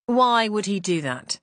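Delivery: slow, easy and pleasant; a lightly pleasant, slow inquiry; pleasant question. Acted. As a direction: ask it gently and unhurried. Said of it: "Inspector Jones asked pleasantly".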